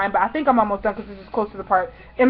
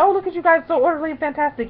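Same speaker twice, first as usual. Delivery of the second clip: higher-pitched mimicked compliment; imitating the star; 5 semitones higher than usual. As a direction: put on her admiring voice, pitched up. Imitates the star admiring fans.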